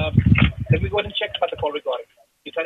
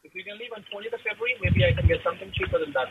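distant, off-mic voice; talking away from the phone; in the background. Real, not acted. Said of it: "you sound like you're in the background".

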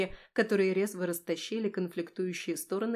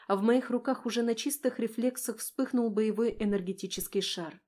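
plain reading voice

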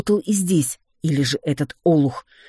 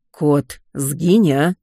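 groaning plea; 4 dB louder, much slower than usual. Acted. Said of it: "простонал Кощеев".

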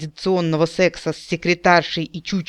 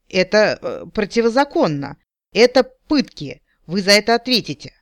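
panicked protest; 5 semitones higher, 4 dB louder than usual. A narrator's reading. Panicked goblin protests torture.

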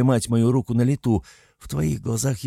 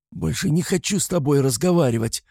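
shouted after him; 7 semitones higher than usual. A narrator's reading. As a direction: yell it after him as he goes. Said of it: "крикнула я вдогонку". (крикнуть вдогонку)

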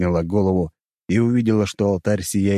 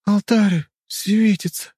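urgent cry; 10 semitones higher than usual. A narrator's reading. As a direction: call out the sudden discovery. Urgent cry at glowing altar.

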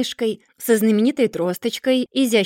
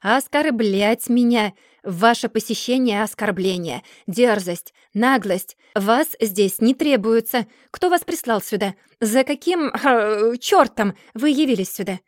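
indignant rebuke in bursts; angry tirade; 4 dB louder than usual. Acted. Mr. Dorrit berates young John for coming, angrily. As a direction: berate him with mounting impatience.

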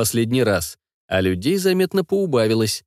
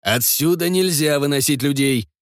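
stern; 4 semitones higher than usual. Acted. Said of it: "строгий и одновременно знакомый голос".

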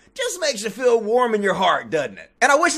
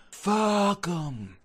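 softer, lower whispered curse; softest whisper; 3 semitones lower, 8 dB quieter than usual. Retold or imitated. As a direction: breathe it like a holy secret. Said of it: "speaking in the softest of whispered".

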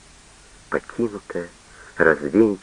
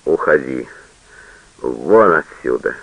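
lower, slow heavy growl; wounded father ordering her out; 6 semitones lower than usual. A narrator's reading. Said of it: "прорычал коснеющим языком".

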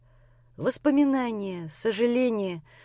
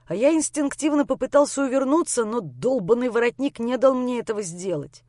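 plain reading voice

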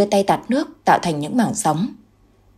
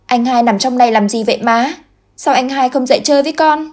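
put-on innocent child question; 6 semitones higher than usual. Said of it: "bên cạnh mẹ mà hỏi".

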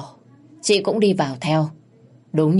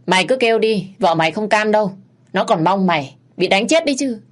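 angry taunt; 5 semitones higher, 4 dB louder than usual. Acted. Minh taunts man he beats.

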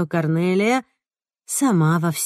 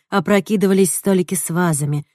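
usual speaking voice

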